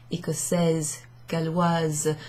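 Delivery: "écossaise" and "galloise" ending in a voiced z; Z sound ending. Shown as a demonstration. Teacher showing feminine nationality endings, "écossaise, galloise" with final z. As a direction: let "écossaise" and "galloise" finish on a buzzed z. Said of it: "with a Z sound at the end".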